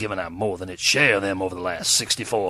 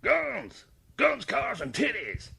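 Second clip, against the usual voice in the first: excited cry; 12 semitones higher, 5 dB quieter, slower than usual. Acted. Guest's parting thoughts.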